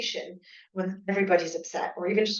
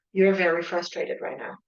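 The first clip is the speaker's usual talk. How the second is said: calm, empathetic. Shown as a demonstration. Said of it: "You're saying it very calmly, almost with empathy".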